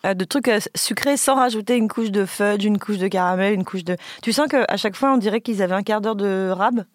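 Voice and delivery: talking through a mouthful; mouth full. Real, not acted. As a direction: speak around a bite of cake. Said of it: "je vais parler la bouche pleine".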